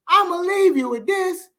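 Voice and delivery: sudden high, pushed-up delivery; high emphatic repeat. Real, not acted. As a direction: lift it way up for emphasis. Repeats closing line, pitched up.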